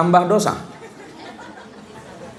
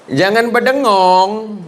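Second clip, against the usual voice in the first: teacher correcting; 2 semitones higher, slower than usual. Retold or imitated. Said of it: "kata gurunya kan".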